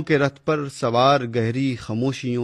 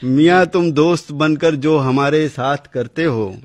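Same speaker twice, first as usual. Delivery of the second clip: laughing recital. Real, not acted.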